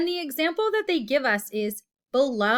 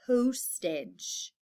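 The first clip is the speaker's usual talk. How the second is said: hushed modelling of "postage"; breathy whisper of the spelling word; 3 dB quieter than usual. Shown as a demonstration. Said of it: "That long O sound is in the first syllable".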